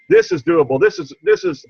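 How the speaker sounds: really getting choked up mid-sentence. Real, not acted. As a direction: voice rising high as emotion catches. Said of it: "I'm getting all choked up".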